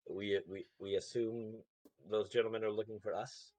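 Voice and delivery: muffled behind a hand; hand over mouth. Acted. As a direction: speak through your covered mouth. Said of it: "put my hand over my mouth".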